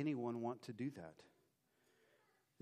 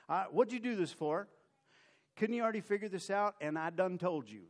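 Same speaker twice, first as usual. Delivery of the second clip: folksy Chester paraphrase; 4 semitones higher than usual. Acted. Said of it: "that's the Chester translation of that".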